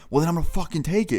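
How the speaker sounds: moderately heated retort; retold threat. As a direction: imitate a robber getting heated. Robber threatens to take the money.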